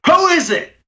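high-pitched yell through a door. Acted. Ruffian answers a knock on the door, yelling. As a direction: call out sharply to an unknown knocker. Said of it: "someone just yells".

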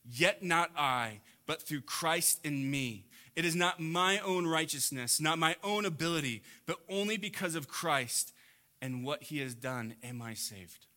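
earnest believer speaking out; humble confession. Acted. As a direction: confess it with weight. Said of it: "instead say".

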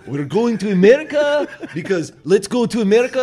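high, loud cartoon father mouse; fed-up papa mouse declaring the move; dad mouse rallying the family, high and loud. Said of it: "And the dad's like".

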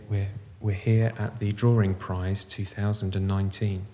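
slow hushed commentator; measured, reverent commentary; golf commentator. Acted.

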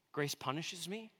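soft doubtful question, rising at the end; puzzled questioning. Acted. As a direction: query it quietly as a baffled listener. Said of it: "doesn't really seem to go together".

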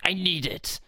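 high, eager exclamation. Retold or imitated. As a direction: pitch it up with urgent want. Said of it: "I was like".

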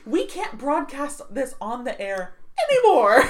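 panicked mock Russian, half laughing; mock Russian accent. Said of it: "I like your impression better".

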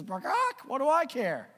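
the chicken waves off the mouse's worry, squawking high; dismissive chicken. Acted. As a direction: squawk it with a shrug.

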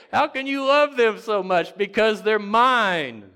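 high, full-voice cry, slowing on "mine"; impassioned shout. Real, not acted. Preacher answers critics of their children, shouting. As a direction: shout the answer, stretching the last word.

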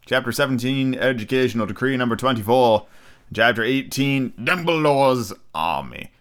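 slow, drawn-out segment intro; grand announcer. Acted. Podcaster presenting this week's chapters to listeners, slow grand announcer. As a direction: announce each chapter with ceremony.

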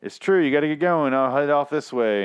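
a hammed-up stranger agreeing, slowing at the end; mock passerby. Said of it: "the passerby dude is like".

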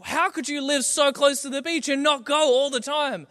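going nuts. Retold or imitated. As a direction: rant like you can't believe it. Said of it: "He's, like, going nuts".

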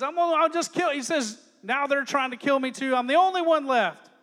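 loud, despairing reading; loud Elijah lament. Retold or imitated. Preacher reading Elijah's complaint, loud and despairing. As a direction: belt out the lament.

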